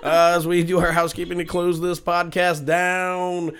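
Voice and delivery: slow, drawn-out ring announcer call; Bruce Buffer. Acted. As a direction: announce it to the arena, slowly. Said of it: "That's my Bruce Buffer announcer voice".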